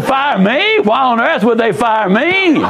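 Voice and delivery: high, incredulous "Fire me?"; a startled woman who can't believe it; stunned disbelief. Retold or imitated. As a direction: play her shock, pitch jumping up. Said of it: "She was stunned".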